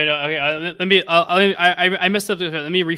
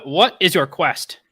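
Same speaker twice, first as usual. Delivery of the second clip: slow, lightly acted challenge; bridge keeper; 3 semitones higher, 4 dB louder, slower than usual. Bridge keeper challenges travellers, slow formal questioning. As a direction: pose it slowly as a solemn question.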